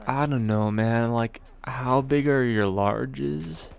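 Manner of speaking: slow, dragged-out stoner drawl; lightly voiced stoner caller, drawn out slowly; stoned drawl. Stoned caller asking the pizza guy about sizes, slow drawl.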